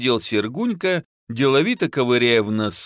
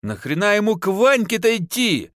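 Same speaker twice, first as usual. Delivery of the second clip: higher mock yell, narrated; yelling wife; 8 semitones higher than usual. A narrator's reading. Wife to husband about sending the son off, mild yell. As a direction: bark it at the husband. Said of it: "заорала жена".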